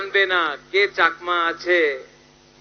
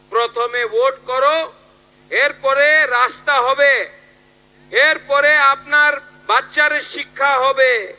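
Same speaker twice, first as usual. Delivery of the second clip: raised, forceful mimicry of a politician's bargain; higher-pitched, insistent quoted campaign demand; Manik Saha; 5 semitones higher, 4 dB louder than usual. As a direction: imitate a politician laying down conditions, pitched up. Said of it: "Manik शाह है, जो बोल रहा है".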